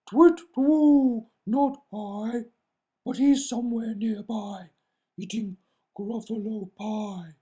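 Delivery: high hooting owl voice. Acted. Owl answering the Gruffalo's child, high and hooting. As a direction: hoot it like a fluttery owl.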